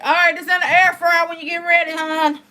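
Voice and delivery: high, loud sing-song to her husband; sugary call-out about the air fryer; sweet wife voice. Retold or imitated. Wife sweetly tells husband his food is ready, loud and high. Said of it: "But I just was like".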